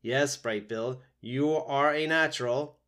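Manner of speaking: robot echoing praise, slowly; a touch of put-on motherly warmth; trying to sound motherly. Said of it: "trying to sound like a good mother".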